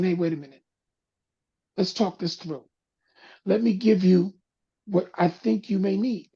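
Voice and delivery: calming voice. Shown as a demonstration. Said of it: "bringing the voice down, bringing the tone down".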